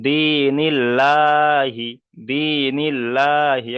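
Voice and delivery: দিনিল্লাহি very slow with a light, open "laa"; unrounded, long-held "laa" in দিনিল্লাহি; thin "laa" recitation. Shown as a demonstration. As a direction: stretch দিনিল্লাহি as "dee-nil-LAAA-hi". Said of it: "লা উচ্চারণ করে পড়তে হবে".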